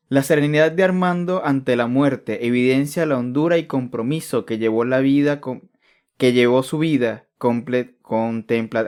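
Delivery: leído con tono solemne y ceremonioso; léelo como un homenaje grave; lectura solemne. Shown as a demonstration. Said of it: "andabas demasiado solemne con todo el". (solemne, casi declamado)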